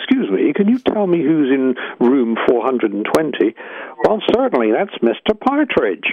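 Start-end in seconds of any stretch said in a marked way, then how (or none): 0.0-3.5 put-on polite, posh, upper-class English accent, slower. Ringing down to reception to ask who is in his room: polite upper-class English accent. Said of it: "with my politest upper-class English accent".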